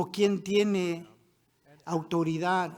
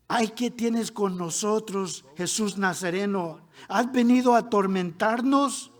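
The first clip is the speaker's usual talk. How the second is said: crying out; 4 dB louder than usual. Acted. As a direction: start measured, then raise the voice in challenge. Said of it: "que dio voces". (clamor que va subiendo)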